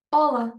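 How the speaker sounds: European Portuguese "Olá", said as a clear model; Portuguese pronunciation. Shown as a demonstration. Teacher showing learners how to say hi, European Portuguese pronunciation. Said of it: "So we say".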